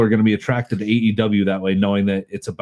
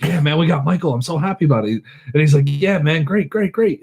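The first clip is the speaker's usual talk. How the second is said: higher, eager phone voice; hammed-up thrilled phone call; mock excited; 5 semitones higher than usual. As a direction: gush with overdone delight.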